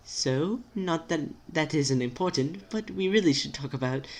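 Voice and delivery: lightly voiced, tentative friend; timid friend. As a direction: try politely to change the subject.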